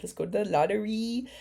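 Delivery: amateur Latina accent imitation, lifted pitch; rough fake Latina accent. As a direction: try a Latina accent, not very well. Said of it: "I don't know how to do a Latina accent".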